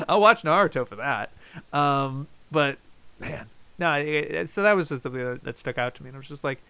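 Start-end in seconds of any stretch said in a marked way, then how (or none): none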